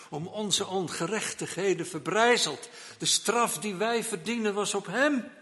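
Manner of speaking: loud, high impassioned pulpit climax; preaching at full force. Acted. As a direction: thunder it from the pulpit, rising.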